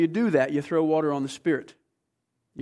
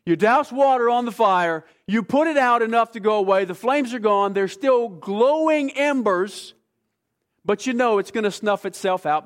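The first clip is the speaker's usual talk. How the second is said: rising preaching fervor; 5 semitones higher, 4 dB louder than usual. Real, not acted. Preacher building the campfire picture.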